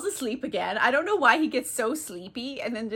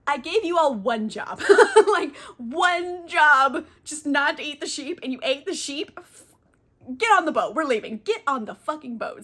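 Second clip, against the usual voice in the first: exasperated scolding; 4 semitones higher, 5 dB louder than usual. Retold or imitated. Odysseus scolds crew.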